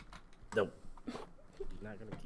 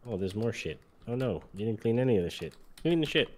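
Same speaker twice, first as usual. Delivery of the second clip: rising fury, louder each line; angry yelling; 3 semitones higher, 11 dB louder than usual. Acted. Cop yelling at raccoon.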